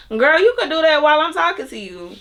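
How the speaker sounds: high sassy friend voice, pitched well up; mock dismissive friend. Imitating a friend who shrugs off being told no, high and sassy. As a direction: mimic a friend brushing off your boundary. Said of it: "They could be thinking like".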